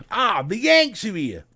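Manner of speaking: put-on slow, jokey Cockney accent. Host teases American viewer, mock Cockney accent. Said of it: "I don't know why I went Cockney there".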